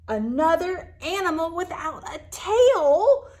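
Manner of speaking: amused line with a laugh in it. Acted. Lizard laughs at the tailless bear. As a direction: chuckle through the words.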